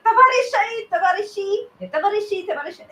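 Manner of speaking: lightly voiced Lenin calling comrades; a hint of Lenin; Lenin impression. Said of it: "he does a really good Lenin impression".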